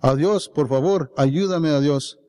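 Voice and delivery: pleading cry, held in check; calling out. Acted. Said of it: "And I call out".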